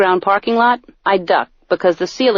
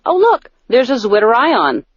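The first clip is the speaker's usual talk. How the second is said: mock casual showing off; 3 semitones higher than usual. Shown as a demonstration.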